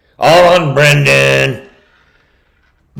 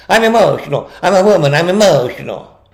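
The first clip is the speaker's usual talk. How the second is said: mock woman; 3 semitones higher, faster than usual. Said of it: "You're emotional".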